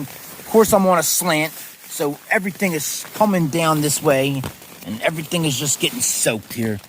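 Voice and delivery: loud and exasperated; frustrated loud rant. Real, not acted. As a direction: vent loudly about the wet tent. Frustrated soaked tent rant.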